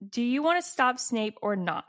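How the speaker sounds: high, mildly melodramatic question; dramatic challenge. Retold or imitated. Reading Ron challenging the others to stop Snape, dramatic. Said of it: "they're so dramatic".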